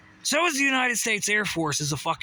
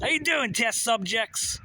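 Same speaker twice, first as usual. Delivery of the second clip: mocking Facebook voice; 6 semitones higher than usual. Facebook mocking viewers as test subjects, high sly greeting. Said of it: "Facebook's here, too".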